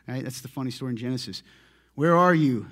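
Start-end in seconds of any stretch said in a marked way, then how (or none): 1.9-2.7 1 God calling out. Retold or imitated. God calling Adam in Genesis.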